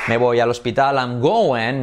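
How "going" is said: "going" with a reduced ending, "GO-en"; American GOING. Shown as a demonstration. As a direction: soften "going" to "go-en". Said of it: "no going". ("going" como "góuen")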